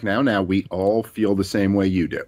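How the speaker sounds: put-on calm the kids down gently; soothing parent. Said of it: "take 'em aside and be like".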